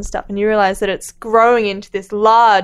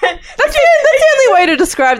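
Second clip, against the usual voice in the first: higher, louder amused quip; 13 semitones higher, 4 dB louder than usual. Real, not acted. Cohost joking about the horse's backside, amused. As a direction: tease with a grin in the voice.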